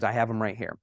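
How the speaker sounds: lightly voiced German accent, low and soft; a hint of a German investor. German investor answering partner on the phone, light German accent. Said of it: "in his German accent".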